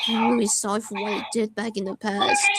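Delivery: quiet, choked-up apology; on the verge of tears. Real, not acted. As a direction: hold back tears as you say sorry. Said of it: "Ignore how I was about to cry".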